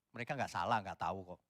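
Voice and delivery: ordinary delivery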